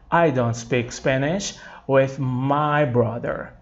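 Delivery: slow, clear repeat for students; slow model sentence repeated. Shown as a demonstration. Teacher repeating the sentence slowly for students. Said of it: "Gente, só fazendo isso aqui".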